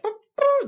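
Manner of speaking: high squeaky boop of a trumpet; trumpet imitation. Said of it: "the trumpet sounding like".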